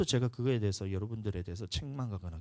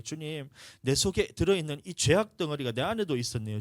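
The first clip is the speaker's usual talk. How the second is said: fervent repentant prayer; 4 semitones higher, 6 dB louder than usual. Retold or imitated. Retold tearful repentance prayer.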